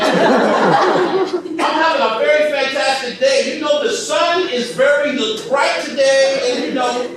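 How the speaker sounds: hammed-up flowery small talk; pompous fancy talker. Shown as a demonstration. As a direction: overdo every word, mock-grand. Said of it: "It will sound very weird".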